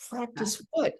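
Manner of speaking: retold disbelieving practice what; baffled retort. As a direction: throw it back at the teacher. Baffled at teachers' instruction.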